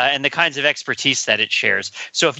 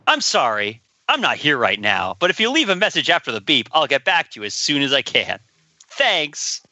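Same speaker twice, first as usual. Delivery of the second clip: low, canned voicemail greeting voice; answering machine greeting; 3 semitones lower than usual. Pretend. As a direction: read it like an old tape message. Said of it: "Was that eighties enough for you".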